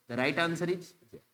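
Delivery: the right answer is Z, slow and deliberate; teacher revealing the answer slowly. Shown as a demonstration. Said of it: "answer reveal".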